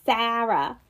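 imitating Boston friends' "Sarah"; Boston accent. Imitating how friends say her name, Boston accent. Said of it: "I love when they say my name".

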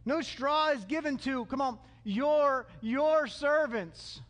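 slow, mock plaintive appeal; stretched-out, wheedling complaint; whiny. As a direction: fawn and complain at once. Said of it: "how they're kinda whiny".

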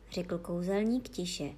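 ordinary delivery, nothing marked

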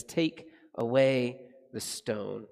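gentle, slow command; Jesus speaking tenderly at Lazarus's tomb, gentle and slow. Acted. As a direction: invite them gently to roll the stone away. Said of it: "Jesus says tenderly to us".

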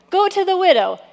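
loud, high-pitched order; acted command. Preacher voicing God sending Elijah to the widow, loud acted command. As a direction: call out the next mission.

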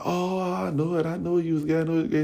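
high sing-song teasing, lightly done; a hint of a taunting girl; mocking taunt. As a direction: needle him like a schoolyard bully.

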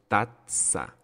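tazza split by a held stop before "tsa": tat-tsa; pause on double Z. Shown as a demonstration. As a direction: hold a little pause inside tazza. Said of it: "Entonces hago una pausa".

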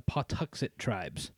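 breathy whisper of the tribe name; soft whispered aside. Real, not acted. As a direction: let the name drop to a whisper.

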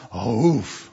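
low woof of agreement; imitated dog woof. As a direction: bark a short yes like a dog. Dog answers the butcher.

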